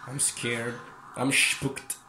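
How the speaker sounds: scared whisper. Real, not acted. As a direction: breathe it out as a frightened whisper. Scared while killer near.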